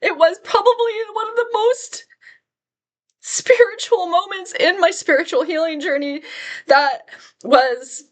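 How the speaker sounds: fighting back tears, voice going thin and high; real emotion catching in the throat; getting emotional. Real, not acted. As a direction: voice rising high as emotion breaks through. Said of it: "I'm gonna get emotional again".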